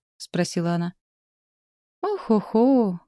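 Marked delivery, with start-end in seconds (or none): 2.0-3.0 high, exaggerated parrot sigh; mock heavy sigh. A narrator's reading. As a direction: ham up a long heavy sigh. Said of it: "изобразил тяжёлый вздох".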